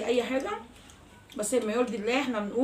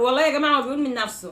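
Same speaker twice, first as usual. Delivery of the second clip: laughing; 3 semitones higher, 5 dB louder, faster than usual. Real, not acted. Laughing explanation.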